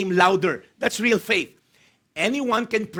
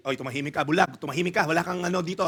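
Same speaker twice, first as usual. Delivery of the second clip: low-voiced telling-off; mildly acted scolding to be quiet; rebuking, hushing; 4 semitones lower, 3 dB quieter, faster than usual. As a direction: hush a noisy beggar under your voice. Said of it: "rebuked him and told him to be quiet".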